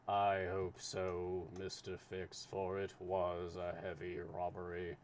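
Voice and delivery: lightly voiced slow, steady official; unhurried, measured consul.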